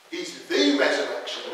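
THE stressed in "the resurrection", said in full. Shown as a demonstration. Preacher correcting "a resurrection" to the definite article, stress on THE. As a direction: lean on the word THE. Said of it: "The definite article's there".

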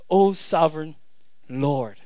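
hushed-down, solemn address with a pause; reverent. Acted. Abram putting God in his rightful place, reverently. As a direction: let Lord drop low after a pause. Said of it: "he says it with such reverence".

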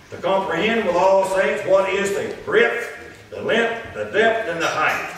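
slow, measured declamation from the pulpit; scripture read aloud. Real, not acted. Preacher reading Saint John to the congregation, slow declamation. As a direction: sustain each phrase as solemn Bible reading.

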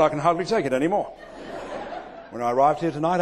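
normal talking voice

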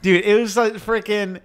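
mock British accent. Bit carries into commentary.

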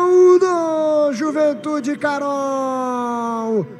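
drawn-out goal shout, slow; long goal yell. Real, not acted. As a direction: hold the goal cry, then name the scorer. Goal scored, radio narrator.

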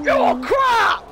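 1 mocking taunt. Real, not acted. Taunting losing friend.

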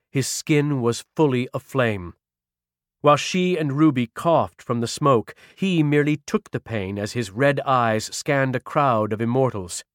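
measured, dramatic audiobook narration; story narration. A narrator's reading. Narrator setting the scene of a burning vampire's arrival, dramatic narration. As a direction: tell the tale with weighty pauses.

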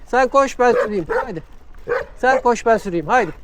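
jolly the dog along; cheerful coaxing. Real, not acted. Cyclist urging the dog to run beside him, cheerful coaxing.

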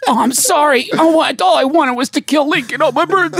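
high strained dying voice; dying soldier voice. Pretend. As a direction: whine it out, dying. Acting fallen soldiers bumping.

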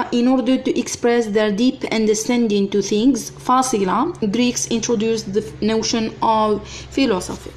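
slow, even dictation pace; teacher dictating to students. Acted. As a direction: read it out word by word for copying. Dictating the sentence to class.

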